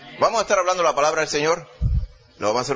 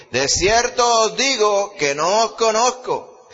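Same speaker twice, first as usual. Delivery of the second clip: loud, slow solemn rejection; stern Lord; 6 semitones higher, 5 dB louder, slower than usual. A narrator's reading. The bridegroom rejecting the latecomers, loud and slow. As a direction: pronounce it as final judgment. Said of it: "Mas él respondiendo dijo".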